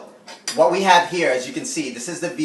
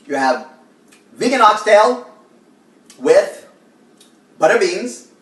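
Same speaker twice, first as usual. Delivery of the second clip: proud presentation; 9 semitones higher, 8 dB louder than usual. Real, not acted. Presenting the finished plate.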